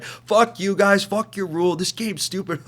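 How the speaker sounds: loud, high, slow mocking rant of the sore losers; mock angry yell. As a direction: ham up the sore loser's fury.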